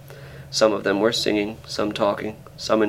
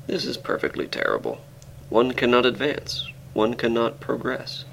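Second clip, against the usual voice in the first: disconsolate; 4 semitones higher than usual. Acted. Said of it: "saying disconsolately".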